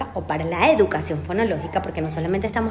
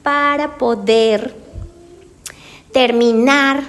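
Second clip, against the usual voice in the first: slow, strained, louder push; laboured dysarthric delivery; effortful slow speech; 5 dB louder, much slower than usual. Shown as a demonstration. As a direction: force each word out with effort. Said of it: "la lengua no tiene la fortaleza".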